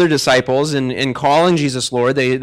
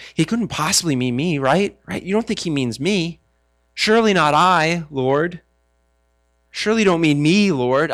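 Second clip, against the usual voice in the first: higher, anxious questioning; acted plea for reassurance; unsure; 5 semitones higher than usual. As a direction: ask it as a worried disciple. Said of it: "they're unsure of themselves".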